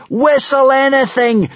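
high, slow, drawn-out scream. A narrator's reading. Vikings beg the stalling dragon, screaming. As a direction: scream it in desperation. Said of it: "screamed the Vikings".

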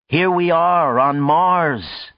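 high, slow proclamation; impassioned speechmaker. A narrator's reading. John addresses the celebrants after the meteor, impassioned proclamation. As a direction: announce it grandly to the crowd.

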